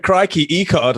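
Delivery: a touch of Aussie twang; mock Aussie quote. As the reporter, a lightly mocking Aussie email line. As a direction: toss off a mock Aussie crikey. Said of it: "This one said".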